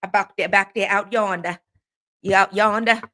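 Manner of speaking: imitated Southern country talk; playful mock Southern twang; country Southern accent. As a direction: put on a down-home Southern accent. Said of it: "as y'all say".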